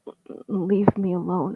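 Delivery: soft pleading mumble; mumbling. Acted. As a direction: barely get the words out. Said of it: "I mumble".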